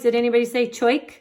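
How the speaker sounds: teasing quick question; playful check. Shown as a demonstration. Teacher to class: playful quick tease. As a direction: tease kids about the wrong sound.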